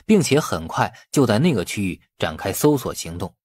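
ordinary delivery

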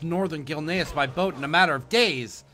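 lively, lightly acted boat repairer; lightly voiced boatman. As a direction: read it as a game boatman, emphatic. Reads boatman's quest text in character.

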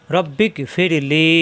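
slow, careful, each syllable held; unhurried teacher's demo; slow recitation demo. Shown as a demonstration. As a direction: recite it slowly for the class to repeat. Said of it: "দুইবার পড়তে হবে".

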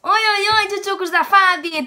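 high, loud bubbly youtuber hello; Fabi's greeting. Retold or imitated. Vlogger imitating another youtuber's greeting, high and loud. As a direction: chirp it like a peppy youtuber. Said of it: "Temos oi".

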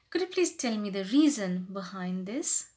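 courteous inquiry, lifted at the end; humble polite question. Shown as a demonstration. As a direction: ask politely for the reason. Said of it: "try to sound more humble".

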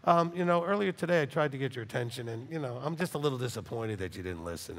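soft, low, mild disappointment; imitating a meek, soft-voiced God; gentle disappointed. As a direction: sigh it out tenderly, almost apologetic. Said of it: "He would be like".

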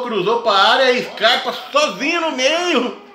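high, laughing replay of the goal; excited goal recap. Real, not acted. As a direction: relive the goal with joy.

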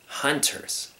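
soft, wondering near-whisper; saying to himself. Acted. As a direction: muse on a new word. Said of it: "he said to himself".

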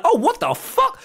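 patient realising the drug is in; shocked. Retold or imitated. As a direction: blurt it in alarm. Shocked at being drugged.

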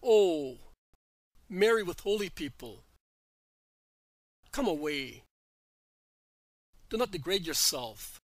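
a loud startled "Oh", then urging; exclaiming woman. A narrator's reading. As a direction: burst out, then plead with her to come away. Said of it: "exclaims the woman".

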